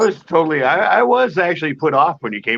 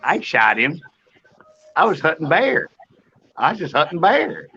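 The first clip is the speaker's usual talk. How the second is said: put-on hunter voice rising at line ends; comic hunter character, upturned endings; Carl's shooter character; 3 semitones higher than usual. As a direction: play the shooter, pitch lifting at the end. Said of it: "that was his character".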